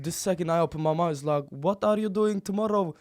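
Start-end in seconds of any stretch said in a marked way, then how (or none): 1.5-2.9 mock American street accent. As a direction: switch to a hammed-up hood American voice. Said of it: "I just can't speak like that".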